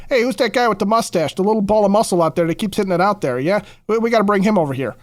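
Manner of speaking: put-on hammy, half-hearted New York accent; a weak stab at a New York fan's accent; bad New York accent. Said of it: "that's a terrible New York accent".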